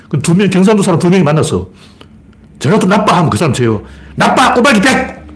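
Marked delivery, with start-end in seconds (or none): 2.6-3.2 higher-pitched acted jab; mock badmouthing. One local man badmouths Jeolla to another, mock accusation. Acting out regional badmouthing contest. 4.1-5.2 high, slow drawn-out bid; mock bidding. One man raises the stakes in badmouthing, hammed-up bidding. Acting out escalating betting-style badmouthing.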